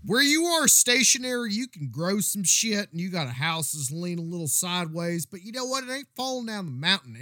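a hint of a folksy mountain man; old prospector. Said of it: "what this old prospector is talking about".

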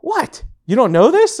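very high, mock-innocent wife; wife feigning surprise at husband; wife acting surprised. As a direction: play it as if everyone knows this. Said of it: "she's looking at me like".

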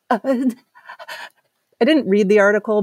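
normal talking voice

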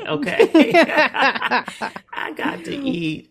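high laughing words. Real, not acted. Laughing over Harold's chicken.

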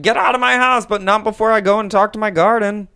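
high, loud comic outburst; mock angry yell. Old lady ordering them out of her house, mock-angry. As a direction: holler it like a fed-up householder.

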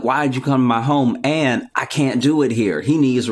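loud, indignant mob doctor. Retold or imitated. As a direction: scold the intruders. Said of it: "they're like".

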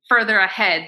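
English words slipped in; spanglish. Real, not acted. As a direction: switch to English mid-sentence. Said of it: "perdón el Spanglish".

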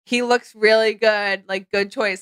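slow, dry mock praise; retelling a guy's sarcastic compliment. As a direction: praise it but mean the opposite. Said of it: "Like, but sarcastically".

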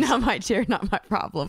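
giggling through the words; laughing while talking. Real, not acted. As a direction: laugh it out teasingly. Laughing repeat.

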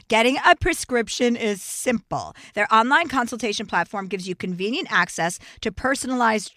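steady, upbeat sponsor read. Acted. Podcast host reading a hair-loss sponsor spot, upbeat ad read. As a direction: sell the product smoothly to listeners.

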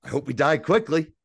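imitating a sarcastic wisecrack, lifted in pitch. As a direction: deliver it brightly with a sarcastic grin. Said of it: "just being a sarcastic asshole".

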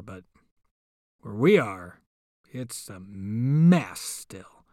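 slow hushed aside; whisper. Real, not acted. Host aside to listeners, slow whisper. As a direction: drop to a slow whisper about the mess.

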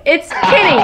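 defiant Texan "Kenny" as KIN-ny, pitched high; Texas accent. Real, not acted. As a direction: own the Texas accent, "Kenny" rhyming with "skinny". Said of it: "it's my Texas accent".

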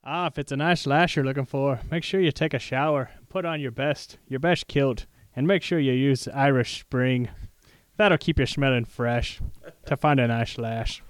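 a hint of a cheesy Irish ad voice; bad Irish accent. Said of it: "I can't do any more, uh, Irish, bad Irish accent".

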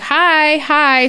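put-on high-pitched toddler hello; little kid greeting. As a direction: chirp it to passers-by like a small child. Toddler greeting everybody in mall.

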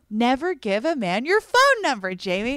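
gasp, then scold yourself in mock horror; mock self-scolding. Telling herself off for giving out her number, mock-horrified.

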